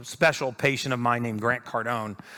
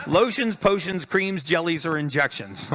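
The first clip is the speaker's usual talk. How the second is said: lightly mimicking Grant's rattled-off list, slower; rehearsed quote of Grant; 6 semitones higher, 3 dB louder than usual. Speaker on stage repeats the client's exact phrase, lightly mimicking. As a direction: savor each word of the list like a rehearsed line. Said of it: "I rehearsed that 'cause that's exactly what he said".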